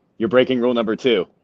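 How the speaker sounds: normal talking voice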